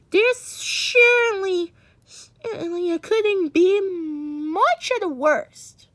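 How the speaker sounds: slow, crying plea; slowly, near tears, clinging to hope; a mother crying as she hopes; tearful. Acted. Ma hoping through tears.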